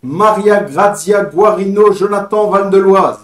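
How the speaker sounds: slow, deliberate name read-out; careful name reading. Real, not acted. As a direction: sound out each foreign name slowly. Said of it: "désolé pour la prononciation".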